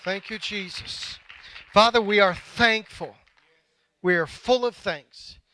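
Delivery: heartfelt prayer with measured pauses. Real, not acted. Pastor thanking God for his congregation, prayerful.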